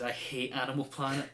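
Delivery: gritted teeth. Retold or imitated. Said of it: "through gritted teeth".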